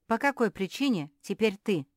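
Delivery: loud, sharp angry question; angry demand. Acted. Beatrice angrily challenging Mafi's turn, loud and sharp. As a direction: snap the question out in anger. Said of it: "зло осведомилась Беатриса".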